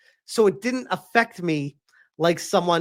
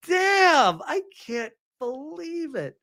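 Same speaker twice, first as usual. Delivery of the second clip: mock wife; 10 semitones higher, slower than usual. Wife's disbelief.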